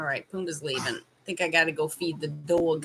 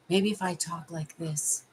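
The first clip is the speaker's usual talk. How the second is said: softer, slightly deeper voice; lowered voice; 3 semitones lower, 6 dB quieter than usual. Shown as a demonstration. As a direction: try talking lower and quieter. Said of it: "I need to lower it".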